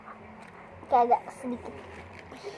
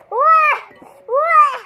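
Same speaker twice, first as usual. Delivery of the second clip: excited exclamation; 13 semitones higher, 8 dB louder than usual. Real, not acted. Spicy noodle challenge reaction.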